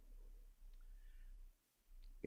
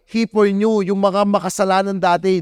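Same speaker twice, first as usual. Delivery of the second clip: emphatic preaching; 5 semitones higher than usual. Real, not acted. Preaching climax, high and loud.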